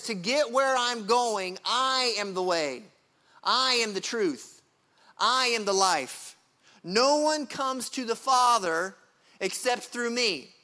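slow, firm declaration with authority; confident and clear. Acted. Jesus answering Thomas, slow, confident and authoritative. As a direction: lay each claim down slowly and surely. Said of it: "with authority and clarity".

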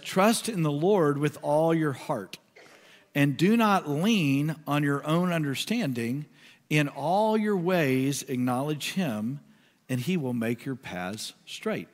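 slow, measured scripture reading. Acted. Pastor reading Proverbs to the congregation, slow and measured. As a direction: read the verse with weight. Reads the verse aloud.

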